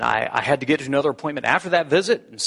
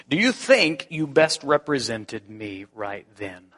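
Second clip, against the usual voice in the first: gentle question; 3 semitones lower, slower than usual. Retold or imitated. God's voice in thought.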